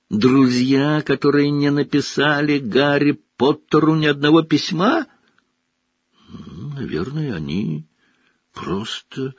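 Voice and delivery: timid elf voice; lightly voiced nervous little elf; house-elf. A narrator's reading. House-elf Dobby speaks.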